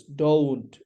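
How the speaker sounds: don't stretched on its 'oh' glide; "don't" with a long gliding vowel, falling; correct don't. Shown as a demonstration. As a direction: say don't slowly as DOH-oont. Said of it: "Look at this".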